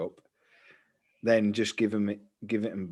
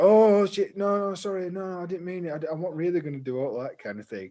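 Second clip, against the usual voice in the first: mock panic; 7 semitones higher, 3 dB louder than usual. Bully panicking, high loud.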